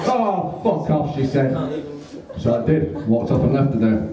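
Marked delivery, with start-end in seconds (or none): 0.1-1.1 high opening, dropping away; exasperated dismissal. Retold or imitated. Date sends Jack packing, exasperated. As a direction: imitate a fed-up date.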